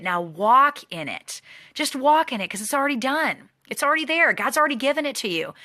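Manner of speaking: high, impassioned, rising to a peak; fervent preaching. Real, not acted. Coach urging the team to walk in success, impassioned. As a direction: preach it to the crowd.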